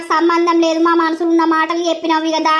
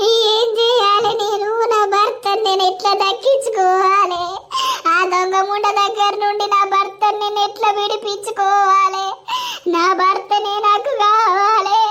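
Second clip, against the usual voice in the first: tearful pleading. Acted. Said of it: "ఏడవకురా Sirisha".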